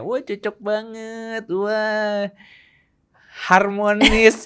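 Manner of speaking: high, slow gushing onlooker; hammed-up outsider admiration; mock admiring. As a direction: coo over the perfect couple. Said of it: "Orang mungkin ngeliat kita kayak".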